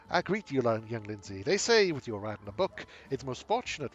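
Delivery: theatrical far-travelled seer, new voice; the Tulip asks the worthy one for a writer; changed voice for the Tulip. Acted. The Tulip greets young Lindsay.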